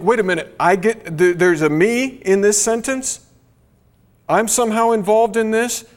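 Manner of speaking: acting out a stunned double take, pitch climbing at the end; stunned disbelief. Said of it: "that should stun us".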